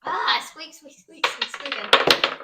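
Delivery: high squeaky mouse; mouse squeaks. Acted.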